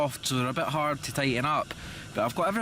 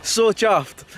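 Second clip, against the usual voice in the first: excited; 6 semitones higher, 4 dB louder than usual. Real, not acted. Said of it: "show you guys my reaction".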